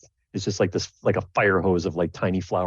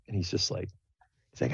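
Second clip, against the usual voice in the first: normal talking voice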